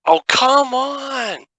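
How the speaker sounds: high, drawn-out groan of frustration; exasperated. Real, not acted. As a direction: whine it out in disbelief. Player fails a check.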